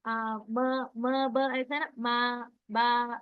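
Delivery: मा, बा with आ held very slowly for one count; teacher demonstrating one-count stretch. Shown as a demonstration. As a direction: drag the आ out for one beat. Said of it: "एक count".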